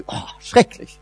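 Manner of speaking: breathy aside, oh, schrecklich, mocking dismay; a little unvoiced shudder at the word schrecklich. Real, not acted. Preacher mocking grim theologians, whispered mock dismay.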